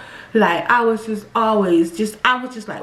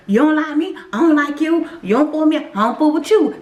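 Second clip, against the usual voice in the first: attitude; 5 semitones higher than usual. Retold or imitated. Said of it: "That's the attitude I was going with".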